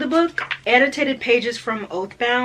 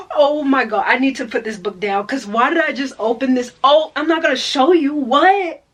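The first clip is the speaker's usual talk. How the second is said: startled; 3 semitones higher, 6 dB louder than usual. Real, not acted. Startled by a spoiler.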